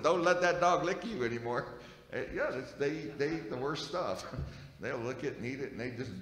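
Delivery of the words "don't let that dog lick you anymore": quoting Hayden. Retold or imitated. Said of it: "Hayden said".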